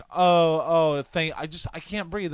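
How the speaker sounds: high, halting mock-woman voice; crazy complaining lady. Woman thanking then complaining about smoke, mock high voice. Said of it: "some fucking crazy bitch lady".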